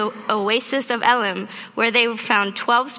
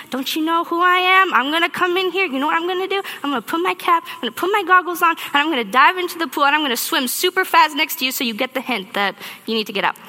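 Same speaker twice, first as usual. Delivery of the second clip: indignant inner rant; 5 semitones higher, faster than usual. Retold or imitated. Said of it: "I'm like".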